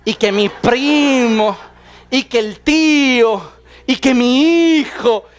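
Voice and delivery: slow, drawn-out listing of relatives; a hint of a long-winded storyteller; rambling litany. The woman dragging out her story to Jesus, slow rambling. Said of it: "se avienta su tremenda letanía".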